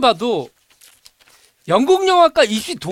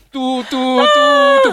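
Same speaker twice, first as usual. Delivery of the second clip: slow high beeping tones; beep imitation; 8 dB louder, much slower than usual. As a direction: beep like a phone line.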